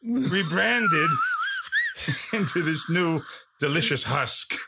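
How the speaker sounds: lightly voiced Pacino swagger; mild Pacino impression. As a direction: ham up the self-love as Pacino. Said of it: "Al Pacino".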